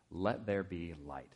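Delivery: slow and solemn divine command; voice of God. Acted. God speaks in Genesis.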